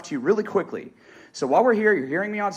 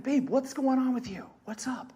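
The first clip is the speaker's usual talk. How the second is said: soft, higher-pitched check-in with a partner; concerned asking; 8 semitones higher, 7 dB quieter than usual. Retold or imitated. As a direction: gently ask what's wrong. Asks worried wife gently.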